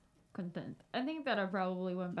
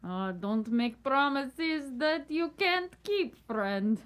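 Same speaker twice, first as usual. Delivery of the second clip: slow, louder, mock-stern warning; teasing; 6 semitones higher, 6 dB louder, much slower than usual. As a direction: drawl it out like a wise warning. Character teases a friend.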